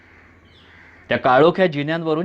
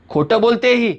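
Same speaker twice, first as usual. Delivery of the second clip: louder, higher protest; shouting; 5 semitones higher, 4 dB louder than usual. A narrator's reading. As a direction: cry out against her lie. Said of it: "तुम्ही ओरडता". (ओरडून खंडन करणे)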